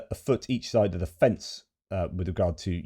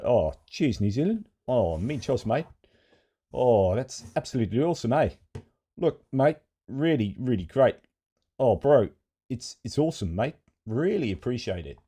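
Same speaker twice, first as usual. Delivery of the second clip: higher-pitched, hammed-up Kiwi accent; New Zealand accent; 5 semitones higher, 3 dB louder than usual. Presenter mock-thanking New Zealand for aid, hammed-up Kiwi accent. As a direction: play up a New Zealand accent, swooping high. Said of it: "do my Pacific Islander New Zealand accent".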